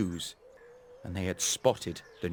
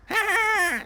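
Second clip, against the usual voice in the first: very high, louder mocking laugh; mocking crow laugh; 6 dB louder than usual. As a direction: cackle at the straw man like a cocky crow. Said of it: "said the first crow".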